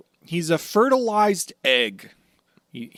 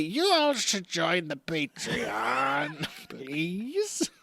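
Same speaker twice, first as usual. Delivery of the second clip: Buggy. Acted. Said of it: "Buggy's mouth to your ears".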